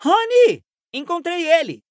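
high, loud call over the shoulder; shouting over shoulder. Acted. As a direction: yell back down the stairs. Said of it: "gritou por cima do ombro". (gritando por cima do ombro)

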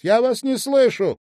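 loud high shout over the roar; shouting over engine. A narrator's reading. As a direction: yell to be heard over the motor. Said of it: "прокричала она".

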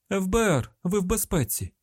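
urgent high-pitched call. A narrator's reading. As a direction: announce yourself urgently to a trapped hostage. Calling down to hostage in pit.

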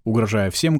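ordinary delivery

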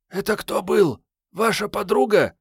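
put-on high, curious girl voice; young girl voice. A narrator's reading. Girl character voiced by narrator.

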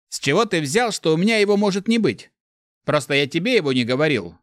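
ворчливо; grumbling. A narrator's reading. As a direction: grumble it out, mildly annoyed. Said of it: "буркнул голос".

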